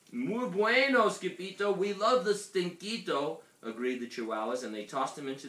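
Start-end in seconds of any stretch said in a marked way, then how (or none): 0.1-3.4 high, happy group cheer; delighted praise. A narrator's reading. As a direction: praise the hero in a raised voice. Chihuahuas praise their hero.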